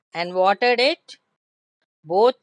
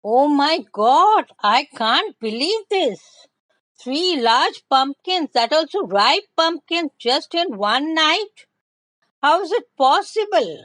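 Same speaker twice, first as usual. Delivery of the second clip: amazed; 4 semitones higher than usual. Acted. Minu seeing three ripe pumpkins overnight, amazed and higher. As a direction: gasp it out in wonder. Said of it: "she was also surprised".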